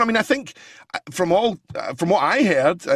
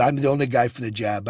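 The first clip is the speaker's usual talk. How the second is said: lower, earnest Trump; sincere Trump; 5 semitones lower than usual. Retold or imitated. Trump being sincere with Barbara Walters, lower and earnest. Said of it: "he started talking very sincerely".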